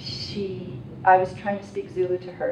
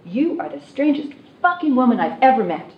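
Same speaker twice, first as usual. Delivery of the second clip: gruff man quoted; 6 semitones higher, 7 dB louder than usual. Retold or imitated. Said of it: "and he said".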